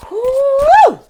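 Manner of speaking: high, loud release of breath after the intensity; loud relieved whew. Real, not acted. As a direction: blow it all out, a big relieved whoo. Exhales after intense channeling.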